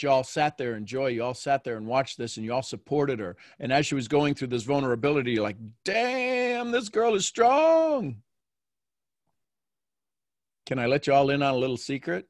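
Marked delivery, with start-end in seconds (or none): 5.8-8.2 higher voice, drawn-out amazement; imitated admiration. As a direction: act out an impressed onlooker, stretching the words. Voicing the group's admiring reaction.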